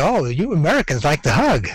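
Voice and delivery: swooping, sing-song mock Australian voice; imitated Australian. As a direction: put on a lilting Australian voice to quote someone. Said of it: "Someone from Australia said".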